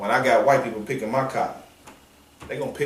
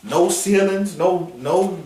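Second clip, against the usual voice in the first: mock white boy; 6 semitones higher than usual. Mocking the white boy's complaint.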